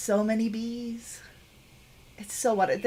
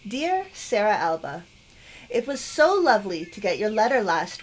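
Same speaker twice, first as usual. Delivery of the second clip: gently performed letter reading; letter read aloud. Acted. Game player reads a grandmother's letter to viewers, lightly acted reading.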